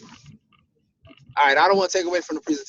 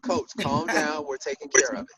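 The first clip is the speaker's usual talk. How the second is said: calm reassurance; 2 semitones lower, 3 dB quieter than usual. Retold or imitated. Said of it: "I said".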